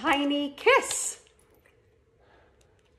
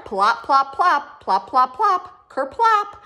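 each plop climbing higher and louder; building plops; 4 semitones higher, 7 dB louder, slower than usual. Acted. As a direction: bounce the plops up the scale. Apples falling sound words.

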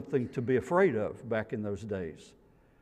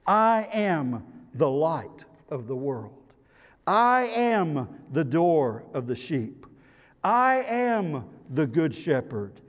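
voicing Jesus; 4 semitones higher, 4 dB louder than usual.

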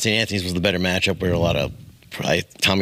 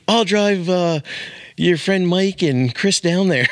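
imitating the mom; 8 semitones higher, slower than usual. Friend's mom offering a ride.

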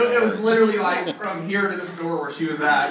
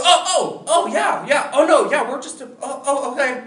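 flustered surprise; 5 semitones higher than usual. Retold or imitated. Brother caught by returning gal.

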